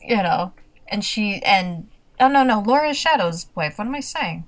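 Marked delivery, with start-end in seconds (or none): none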